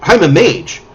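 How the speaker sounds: lightly voiced flustered mage; eccentric mage voice. Mage introduces herself to the party, fluttery. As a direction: play the modest, scattered mage. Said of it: "She says".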